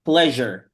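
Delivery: "Pleasure" said alone with a voiced zh middle; pronunciation model. Shown as a demonstration. Teacher corrects student after her reading, modelling "Pleasure" with zh. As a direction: model "Pleasure" as a single word for a learner. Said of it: "Let's try saying the word again".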